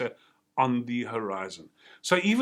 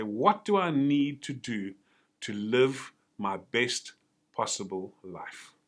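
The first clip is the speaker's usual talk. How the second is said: slow, deliberate, each word weighed; slow quoted call to action; 2 semitones lower, slower than usual. Retold or imitated. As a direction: spell out the question slowly, like the talk's closing line. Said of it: "You said".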